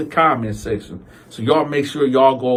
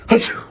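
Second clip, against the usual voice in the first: imitated sneeze. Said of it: "He go".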